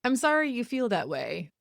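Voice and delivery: dismissive sorry with a rising sorry; mock a hollow apology; fake apology. Mocking a partner's non-apology, dismissive. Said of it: "They sound something like".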